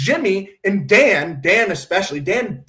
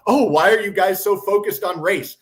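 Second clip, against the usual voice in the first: lightly imitated condescension; a touch of mocking superiority; mock condescending; 3 dB louder than usual. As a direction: imitate someone talking down to a group. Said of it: "very condescendingly go".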